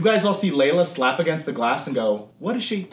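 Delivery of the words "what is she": startled gasp. Acted. Archer sees Layla at glass.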